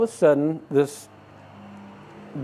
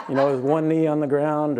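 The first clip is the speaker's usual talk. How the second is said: laughing; 3 semitones higher than usual. Retold or imitated. Laughs at own Superman wish.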